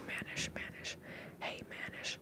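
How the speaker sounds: whispered try at a Southern accent. Shown as a demonstration. Host trying out a viewer's name, whispered Southern accent. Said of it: "somebody with a southern accent say that".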